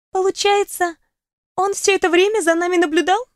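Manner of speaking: тянет слова, мечтательно; протянуть задумчиво; протяжно. Acted. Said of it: "протянула". (протяжно, глядя в потолок)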